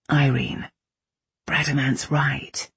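slow, patient and soothing; calm him down gently. A narrator's reading. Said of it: "in the patient tones".

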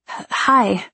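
halting, caught-out greeting; nervous stammer. A narrator's reading. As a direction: stumble into an awkward hello. Heroine caught out, greets Susan.

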